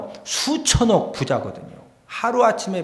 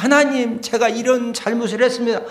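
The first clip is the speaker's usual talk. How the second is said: acted confession to God; 6 semitones higher than usual. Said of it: "이렇게 이제 고백을 하는 겁니다".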